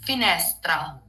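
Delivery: "finestra" with stressed middle syllable, open e; Italian "finestra", leaning on NES; correct Italian pronunciation. Shown as a demonstration. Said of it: "the right pronunciation for the word".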